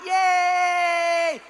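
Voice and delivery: high, loud, drawn-out cheer; gleeful cheer. Acted. Cyclist on a fun ride, gleeful mock cheer. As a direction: whoop like a happy kid on a bike. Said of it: "That's like a fun time".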